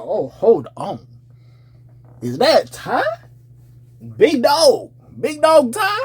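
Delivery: slow laughing surprise rising high; pleasantly surprised. Retold or imitated. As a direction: recognize him with delight. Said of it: "I'm like".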